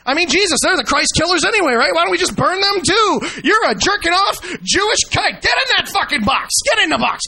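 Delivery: mock bigot's rant. Host parodies the guest's logic as a bigot, mock rant. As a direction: build into a mock furious order.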